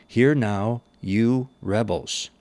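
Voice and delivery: slow, weighty rebuke with a rising edge; exasperated rebuke. Acted. Moses rebuking the rebellious congregation, slow and exasperated. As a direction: scold them like a leader at the end of his patience. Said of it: "Moses lost his composure".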